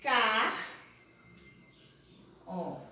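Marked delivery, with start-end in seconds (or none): 0.0-0.5 "Car" as a lone, drawn-out syllable; loud, isolated first syllable "Car". Shown as a demonstration. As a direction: sound out "Car" alone, then pause. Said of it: "Como é que eu falo essa palavra?".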